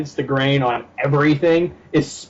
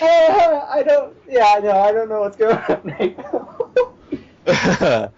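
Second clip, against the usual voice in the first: laughing confusion; 3 semitones higher, much slower than usual. Retold or imitated. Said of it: "I'm just like".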